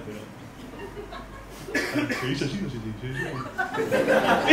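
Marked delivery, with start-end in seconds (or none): 2.2-4.5 preachy ecologist. Retold or imitated. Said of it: "ecologizá vos todo lo que quieras".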